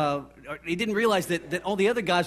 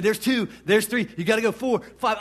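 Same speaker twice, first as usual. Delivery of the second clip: raised, loud excited count; cheering him on; 4 semitones higher, 4 dB louder than usual. Retold or imitated. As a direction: imitate a cheerleader urging on a contestant. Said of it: "Cheering, and I'm sitting there".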